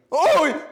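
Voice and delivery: loud, high "oh!"; startled yelp. Real, not acted. Baker interrupted mid-complaint, startled yelp. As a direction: yelp suddenly, cutting yourself off. Sudden yelp, then says sorry.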